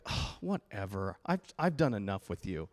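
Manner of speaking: low, weary acted dismissal; fed-up parent. Parent giving up on a fallen child, acted fed-up dismissal. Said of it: "Where you're like".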